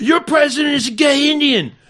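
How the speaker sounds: very high, shrill, hollered yell. Retelling a drinking argument over a toast: imitating own past yelling. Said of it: "I started yelling".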